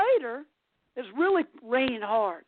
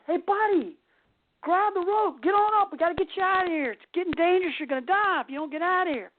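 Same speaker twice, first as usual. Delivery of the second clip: higher-pitched imitation of shouting down; mock urgent yell; 5 semitones higher than usual. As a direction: holler a rescue warning, only moderately raised. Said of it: "the guy screams".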